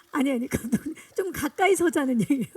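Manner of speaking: amused, laughing protest to the director. Real, not acted. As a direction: talk through a chuckle. Joking while positioning the director for photos. (웃음 섞인 목소리로)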